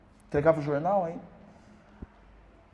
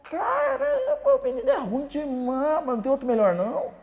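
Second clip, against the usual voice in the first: much higher and louder, laughing scornfully; laughing mockery; 8 dB louder than usual. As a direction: drag out "Caramba" with a sneering laugh. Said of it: "Ele falou". (imitando o visitante zombando às gargalhadas)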